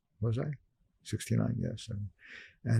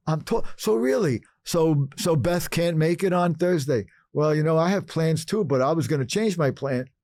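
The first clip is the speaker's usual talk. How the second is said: fake phone chat; 6 semitones higher than usual. In the booth, faking a call for the partners. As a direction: sound busy on the phone. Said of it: "make believe I'm having a conversation".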